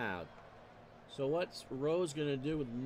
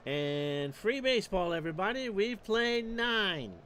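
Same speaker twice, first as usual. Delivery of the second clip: louder, rising call, slowing on the last words; excited extra-innings call; 3 semitones higher, 4 dB louder than usual. Real, not acted. Announcer calls out to the listeners that extra innings are coming, loud and excited. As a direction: sell the news that the game goes to extras.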